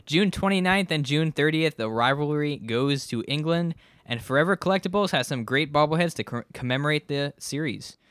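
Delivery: sponsor read pitched to listeners. Acted. Host plugging London series bobbleheads to listeners, ad read. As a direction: read it out as a podcast advert.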